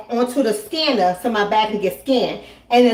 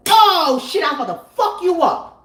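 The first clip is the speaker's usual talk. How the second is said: higher, pumped-up mock threat; excited threat; 6 semitones higher than usual. Comedian to the lady, revving up a fight. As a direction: sound ready to fight.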